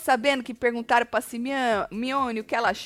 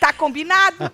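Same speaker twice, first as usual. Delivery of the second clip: laughing through the catchphrase; 7 semitones higher, 7 dB louder than usual. Real, not acted. Host laughing with co-host over the quote. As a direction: say it while laughing. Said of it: "repeated catchphrase, laughing".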